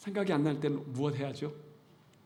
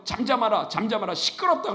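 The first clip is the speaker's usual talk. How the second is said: crowd hushing; 6 semitones higher, 7 dB louder than usual. Retold or imitated. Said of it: "주변 사람들은 뭐라 그래요".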